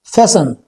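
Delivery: फैसन said as FAH-sen, with no t; silent t in fasten. Shown as a demonstration. Teacher shows learners फैसन with a silent t. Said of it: "टी silent है इसमें".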